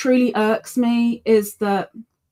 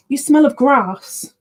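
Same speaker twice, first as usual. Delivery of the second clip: higher, slow playful remark to a pet; teasing the cat; 4 semitones higher, 5 dB louder, slower than usual. Real, not acted. Telling her cat its fur smells of grass, slow playful teasing. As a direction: tease your cat fondly, a bit louder.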